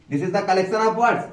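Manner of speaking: drawn out slowly; slow explanation. Shown as a demonstration. Teacher explaining group of words, slow and clear. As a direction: spell out the meaning. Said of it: "explaining slowly".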